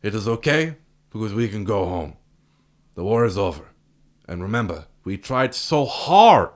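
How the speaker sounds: overdone heartfelt movie speech; bad acting. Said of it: "my favorite line of the, the entire film".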